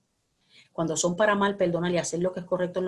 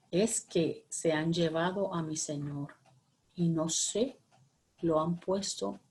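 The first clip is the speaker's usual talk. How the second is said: tearful Mary; 2 semitones lower, 6 dB quieter, slower than usual. Acted. Mary weeping at the tomb.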